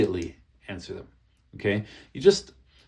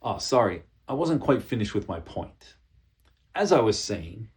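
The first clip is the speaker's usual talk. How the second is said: calm firm reclaim. Shown as a demonstration. Presenter reclaiming the floor from an interrupter, calm and firm. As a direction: hold the floor politely but firmly. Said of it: "but just say it like this".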